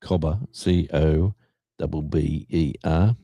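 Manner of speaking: "cobber, C O B B E R" spelled slowly letter by letter; slow, clear spelling of "cobber". Shown as a demonstration. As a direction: spell "cobber" out carefully for viewers. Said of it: "pronounced cobber".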